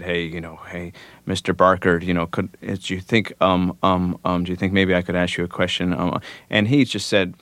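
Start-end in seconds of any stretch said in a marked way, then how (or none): 0.0-5.9 mildly timid retold approach, halting with ums; meek. Young musician shyly approaching Mister Barker after the show, meek. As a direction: stumble shyly through a hesitant request. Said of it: "really meekly and said".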